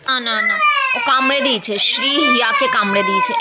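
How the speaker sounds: sudden high cry of alarm. Real, not acted. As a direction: blurt it out in shock. Baby bites sister, mother alarmed. (হঠাৎ চমকে চেঁচিয়ে)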